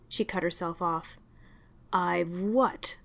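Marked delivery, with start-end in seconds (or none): 1.9-3.0 soft, cold whispered challenge; cold question. Acted. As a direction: dare her to finish, icily. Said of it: "he asked coldly".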